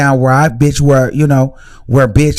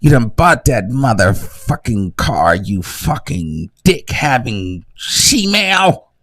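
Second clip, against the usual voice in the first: mock furious rant; 3 semitones higher, slower than usual. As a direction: screech it out slowly like an outraged rival. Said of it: "That's what she really wanna say".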